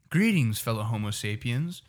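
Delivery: lightly imitated odd teacher's greeting; mock-ceremonious teacher hello; eccentric teacher. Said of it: "I had a teacher".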